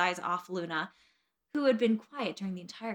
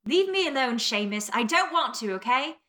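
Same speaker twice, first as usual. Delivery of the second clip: mildly exasperated, higher and louder at the start; annoyed protest; 3 semitones higher, 4 dB louder than usual. Acted. Neville fending off Seamus in a story, mildly annoyed protest. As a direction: push the pestering friend away.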